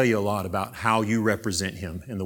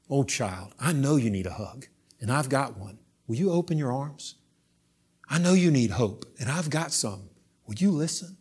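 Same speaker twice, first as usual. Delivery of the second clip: tender pleading; 3 semitones higher than usual. Acted. Jesus voiced pleading tenderly.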